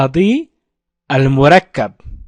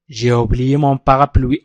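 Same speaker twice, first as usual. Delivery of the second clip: J'ai oublié mon parapluie run together, a bit slow and lower; joined-up model sentence; 4 semitones lower, slower than usual. Shown as a demonstration. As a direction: say it as one smooth sentence. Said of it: "أعيد النطق معي". (نطق متصل للجملة كاملة)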